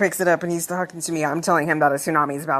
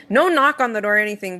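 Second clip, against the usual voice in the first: normal talking voice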